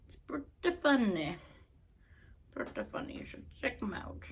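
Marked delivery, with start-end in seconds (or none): 2.5-4.2 whispering. Real, not acted. Whispered aside.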